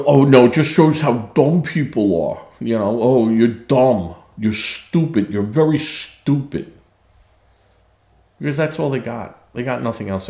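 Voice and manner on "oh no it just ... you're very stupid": mock insults. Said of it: "And you'll have the".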